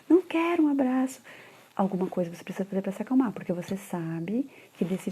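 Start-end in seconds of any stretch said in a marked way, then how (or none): 0.1-1.2 put-on high, pouting kid's refusal; mother voicing the child who won't be hugged; stubborn child. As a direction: sulk it like a small child. Child refusing in acted dialogue.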